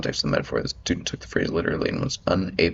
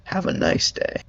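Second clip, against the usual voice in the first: well-wishing; slower than usual. Pretend. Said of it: "hoping your day gets better".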